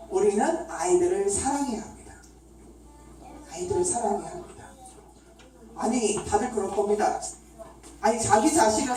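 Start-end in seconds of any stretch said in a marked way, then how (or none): 3.5-4.6 softer, quicker echo of the point; quiet repetition. Real, not acted. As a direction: repeat it softly, almost as an aside. Main point repeated more softly.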